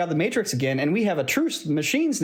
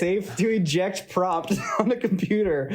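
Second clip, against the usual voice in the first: laughing; 3 semitones higher, slower than usual. Real, not acted. Repeats phrase slowly, laughing.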